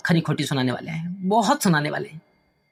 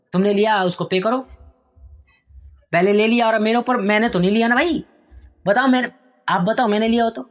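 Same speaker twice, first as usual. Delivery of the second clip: angry son. Acted. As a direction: throw the debt back at father. Son arguing with father. (पिता से बहस करता बेटा)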